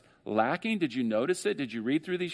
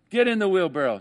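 showman's dare; 5 semitones higher, 5 dB louder than usual. Retold or imitated. Acrobat challenges crowd.

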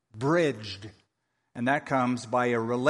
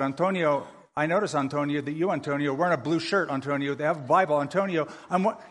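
mock name-repeating; faster than usual. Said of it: "what if I said".

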